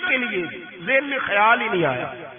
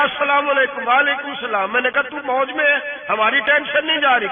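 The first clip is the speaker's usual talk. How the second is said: higher, pushing, indignant voice; angry retort; 5 semitones higher than usual. Retold or imitated. Umar storming into Abu Bakr's tent, indignant higher voice. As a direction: complain sharply at a calm friend. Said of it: "میرے اوپر غصے کا غلبہ تھا".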